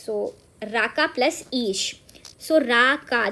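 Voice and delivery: slow word breakdown. Shown as a demonstration. Teacher recaps राकेश's parts, slow and deliberate. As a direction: slowly lay out राका plus ईश. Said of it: "राका भी बोल सकते हैं".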